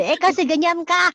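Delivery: a gloating boss sneering at the maid; mocking employer. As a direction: taunt her like a spiteful boss.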